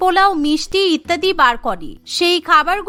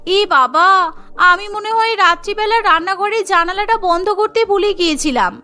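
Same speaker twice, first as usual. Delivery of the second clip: innocent-acting bride; 2 semitones higher than usual. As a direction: play innocent, voice lifted.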